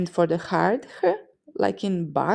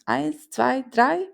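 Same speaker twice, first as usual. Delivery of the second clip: high, loud eager counting; joyful counting; 6 semitones higher, 3 dB louder, slower than usual. Shown as a demonstration. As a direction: count it out like a cheerful sailor. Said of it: "with joy".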